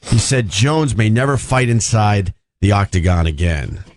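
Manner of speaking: reading an article aloud; news read. Acted. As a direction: deliver it like a news report. Reads the article on air.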